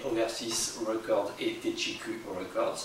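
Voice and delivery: slow careful English accent on the label names; clumsy English accent. Real, not acted. Vlogger admits his English accent is bad, slow English accent. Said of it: "Mon, mon accent anglais n'est pas terrible".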